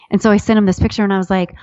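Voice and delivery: usual speaking voice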